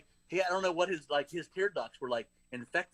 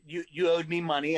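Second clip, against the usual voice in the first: angry demand; 3 semitones higher, 6 dB louder than usual. Retold or imitated. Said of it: "that's how it was said".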